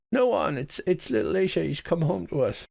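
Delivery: a hint of the blind mother pleading with her son; old mother. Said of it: "And she says".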